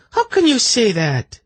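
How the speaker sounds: high, sharp angry snap. A narrator's reading. Zenedra snapping at Silk over the snake, angry. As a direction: snap back in indignation. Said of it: "she snapped angrily".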